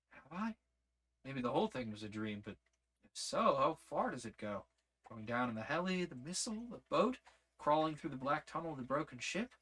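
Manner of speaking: put-on a stunned young woman blurting it out; shaken young woman. Lizzie questioning whether it was dream.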